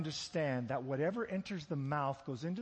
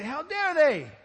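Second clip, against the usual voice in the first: loud, high indignant cry; outraged Pharisees; 11 semitones higher, 15 dB louder, slower than usual. Retold or imitated. Pharisees protesting the disciples' unwashed hands, loud indignant shout. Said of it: "And the Pharisees say".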